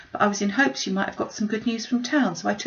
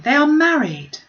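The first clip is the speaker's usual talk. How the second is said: much higher and louder, hopeful burst; eager cry; 9 semitones higher, 7 dB louder than usual. A narrator's reading. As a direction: blurt out her hope with joy. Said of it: "cried Jane".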